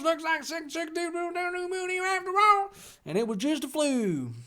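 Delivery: very high, squeaky put-on voice; chatty author. Author updating readers about little ones, chattily. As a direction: gush the note in falsetto. Reads author's note in character.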